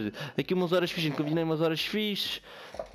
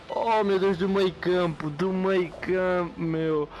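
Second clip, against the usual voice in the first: amazed exclamation; 3 semitones higher, slower than usual. Real, not acted. Marvelling at midfield goal.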